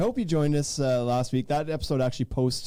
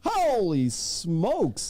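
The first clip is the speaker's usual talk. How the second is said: stunned; 4 semitones higher, much slower than usual. Real, not acted. Amazed at pumpkin weight.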